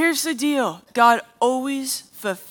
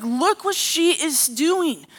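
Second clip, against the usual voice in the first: higher-pitched, indignant complaint; imitated outrage, pitched up; flaming mad; 4 semitones higher than usual. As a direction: act out an angry wife demanding action. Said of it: "and she's flaming mad".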